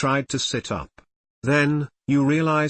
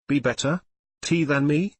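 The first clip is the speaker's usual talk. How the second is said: stammering; 3 semitones higher than usual. Acted. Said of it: "Drift stammered".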